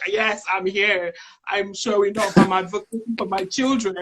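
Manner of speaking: a mother declaring to the school she's present; proud declaration. Retold or imitated. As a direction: announce it proudly, taking your time. Recalling herself as proud parent.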